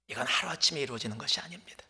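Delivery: hushed whisper. Real, not acted. Preacher whispering the lesson to his congregation. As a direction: whisper the point softly to the congregation.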